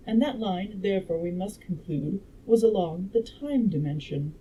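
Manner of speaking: measured audiobook reading; story narration. A narrator's reading. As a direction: read the scientist's explanation out like a storyteller.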